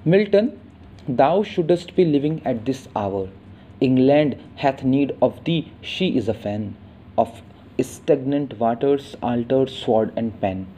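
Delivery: slow, weighty poem reading; poem recitation. Shown as a demonstration. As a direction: recite the sonnet slowly and gravely.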